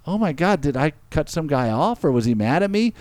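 high, fretting mock woman's voice; worried woman. Retelling the woman who got the message, high and flustered. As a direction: play her as flustered and high. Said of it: "she's like".

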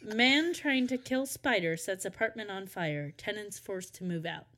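measured mock newsreader delivery; news headline read. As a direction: announce it like a headline.

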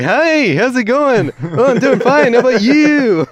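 high, loud nasal mimicry; a singer's style of voice. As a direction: imitate two identical singers. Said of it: "they both sound identical".

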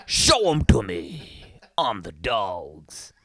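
slow, dumb bro voice; slow dudebro drawl. Acted. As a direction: drag out West Side titties. Mocking dudebro voice.

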